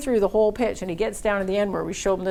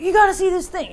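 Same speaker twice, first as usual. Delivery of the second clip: much higher and louder, eager; excited call; 11 semitones higher, 5 dB louder than usual. Retold or imitated. Banker urging his colleagues in, high excited call. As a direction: haul the colleagues in, thrilled.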